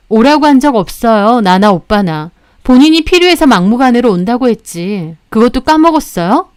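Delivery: mildly scornful retort; scoffing. Acted. Wife answering the crying sister-in-law, lightly scoffing. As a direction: scoff at her with understated contempt. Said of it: "저 코웃음 치며 말했습니다".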